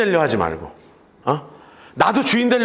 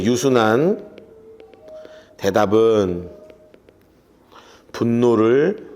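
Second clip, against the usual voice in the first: slow verse reading; 9 semitones lower, much slower than usual. Shown as a demonstration. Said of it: "slow verse reading".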